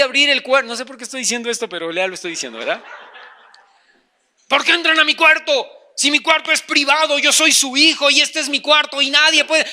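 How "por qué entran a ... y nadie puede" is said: protesting son. Acted. Son objecting to parents entering his room, indignant. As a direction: protest the invasion in mock outrage.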